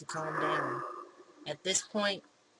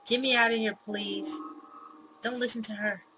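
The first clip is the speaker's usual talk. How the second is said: loud, high begging cry; trapped and pleading for her life; desperate plea; 4 semitones higher, 5 dB louder than usual. Acted. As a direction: beg to be let out. Trapped Sarah begs to be freed.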